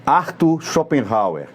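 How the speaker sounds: Arthur Schopenhauer, stretched out slowly; slow careful pronunciation. Shown as a demonstration. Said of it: "Nome difícil".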